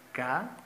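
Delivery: "Ca-sa" as two separate syllables, long pause between; split into syllables. Shown as a demonstration. Teacher dividing casa into syllables for viewers, "Ca-sa" syllable by syllable. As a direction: say "Ca-sa" syllable by syllable, slowly. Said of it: "Separemos casa en sílabas".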